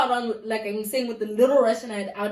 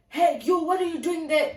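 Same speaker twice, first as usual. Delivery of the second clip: higher-pitched challenge as a Russian stranger; Russian guy; 5 semitones higher than usual. Retold or imitated. Russian man with a torch catching a trespasser, challenging. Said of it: "In Russian".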